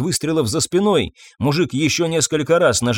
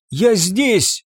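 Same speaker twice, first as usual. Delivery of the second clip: cry out; 7 semitones higher than usual. A narrator's reading. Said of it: "вырвалось у неё из груди".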